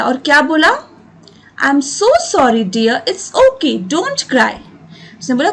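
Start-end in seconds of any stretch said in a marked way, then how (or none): 1.6-4.5 tender mother. Acted. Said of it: "Kamala said warmly".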